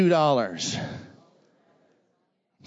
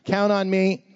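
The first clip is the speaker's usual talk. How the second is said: call to the crowd; 3 semitones higher than usual. Shown as a demonstration. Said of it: "Let's try this side".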